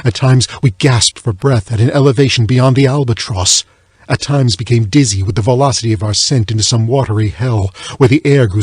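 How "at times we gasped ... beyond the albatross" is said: ordinary delivery, nothing marked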